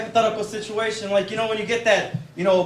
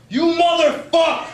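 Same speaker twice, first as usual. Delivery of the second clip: higher, slow outraged mock yell; dad swearing; 7 semitones higher, 4 dB louder, slower than usual. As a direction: curse like an exasperated father. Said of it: "he would swear at me in incomplete sentences".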